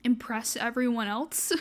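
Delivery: teary shaky voice, close to crying. Real, not acted. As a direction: speak through held-back tears. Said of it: "Sorry for the shaky voice and teary eyes".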